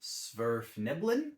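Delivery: slow, questioning Sverfneblin with a rising end; tentative pronunciation. Shown as a demonstration. Trying a complex gnome name for viewers, tentative rising Sverfneblin. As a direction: sound out Sverfneblin slowly, unsure of it. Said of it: "don't know how to pronounce".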